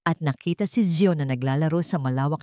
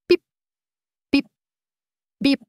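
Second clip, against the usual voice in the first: life monitor beeps; 9 semitones higher, 5 dB louder than usual. A narrator's reading. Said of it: "binasag ng tunog ng life monitor".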